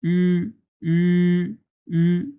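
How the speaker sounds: "উ" as a fronted, rounded ü; u with two dots. Shown as a demonstration. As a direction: hold "উ" as ee through rounded lips. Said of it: "যদি ইউ এর উপরে দুইটা ফোঁটা থাকে". (দুই ফোঁটার "উ" উচ্চারণ)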